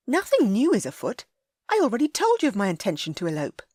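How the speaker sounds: put-on high, worried young lady scolding; a lady upset at his recklessness; Ellie, scolding. A narrator's reading. Ellie defiant.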